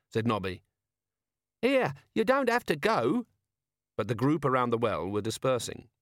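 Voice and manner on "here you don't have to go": high, protesting plea; pleading. A narrator's reading. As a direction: call after them anxiously. Protesting women leaving.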